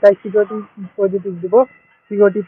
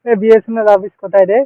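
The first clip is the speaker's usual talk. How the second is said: calling out; 5 dB louder than usual. Real, not acted. Asks someone nearby, off phone.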